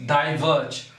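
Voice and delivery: "diverge" with weight on "verge"; light "di", stronger "verge" in "diverge"; iambic stress. Shown as a demonstration. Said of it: "unstressed followed by stress".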